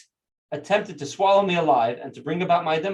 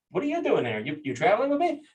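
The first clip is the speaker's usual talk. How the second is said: higher-pitched retold question; lightly acted, higher questioning of a companion; puzzled questioning; 5 semitones higher than usual. Rabbi challenges a demon, retold.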